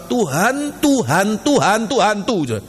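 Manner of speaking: repeated mock cries, no real shouting; mock cry. Preacher imitating disciples crying out on the lake, mock cry. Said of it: "Malah mereka teriak apa".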